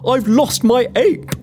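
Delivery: low, slow voice of a distraught man; distressed gentleman. Acted. A colleague begs Missus Cavendish for help, distressed. Plays panicked Phineas Walton.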